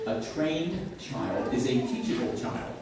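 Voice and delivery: deliberate, spaced-out teaching delivery. Shown as a demonstration. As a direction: spell the maxim out word by word. Maxim repeated slowly for emphasis.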